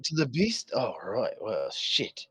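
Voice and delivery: lightly voiced guard captain, disbelief giving way to orders; a hint of an incredulous commanding officer; sceptical guard captain. Game master plays guard captain.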